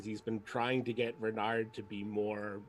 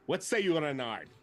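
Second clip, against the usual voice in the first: hammy warrior; 5 semitones higher, 3 dB louder than usual. Acted. Zarg hams up his decision to the party, higher and grand. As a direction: proclaim it like a blustering zealot.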